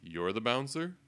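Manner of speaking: surprised question. Retold or imitated. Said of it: "I often heard".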